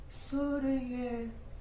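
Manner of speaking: slow words through creepy laughter; laughing confession. Acted. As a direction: gloat slowly, giggling. Confessing killing mother, laughing. (धीमे हँसते हुए क़बूलनामा)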